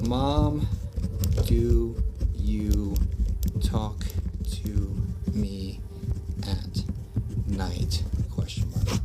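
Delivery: low, halting, one word at a time; word-by-word dictation. Real, not acted. Host enters a caller's question, dictating word by word. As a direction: dictate it slowly with a gap after each word.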